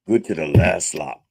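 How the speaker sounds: knocking the microphone mid-line; mic bump. Real, not acted. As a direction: bump the mic while talking. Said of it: "I keep hitting the microphone".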